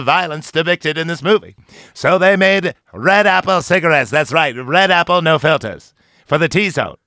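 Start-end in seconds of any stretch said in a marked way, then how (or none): 1.9-7.0 put-on old-timey ad announcer. Mock cigarette ad voice.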